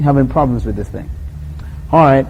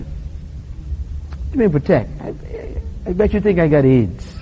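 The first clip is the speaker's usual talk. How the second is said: much softer, slower quizzing; half-whispered suspicious question; hushed aside; 7 dB quieter than usual. Retold or imitated. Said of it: "voicing the girlfriend".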